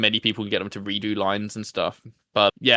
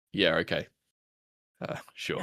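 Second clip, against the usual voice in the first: deadpan; 4 semitones lower, 6 dB quieter than usual. Acted. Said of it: "specifically doing deadpan NPCs".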